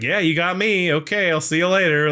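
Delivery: mock concession, pitched slightly up; sarcastic. Podcaster as Satan conceding to the heroes, sarcastic. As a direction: brush them off with retold sarcasm. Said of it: "very sarcastic".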